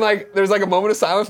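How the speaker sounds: ordinary talk, nothing marked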